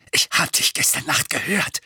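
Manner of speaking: breathy, excited disclosure; breathless. A narrator's reading. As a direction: let it out short of breath. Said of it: "sagte Dudley atemlos".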